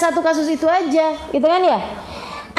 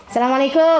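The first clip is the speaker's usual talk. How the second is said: clipped quick greeting; 5 semitones lower, faster than usual. Shown as a demonstration. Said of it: "Perhatikan, jawaban itu akan mirip sama pertanyaan".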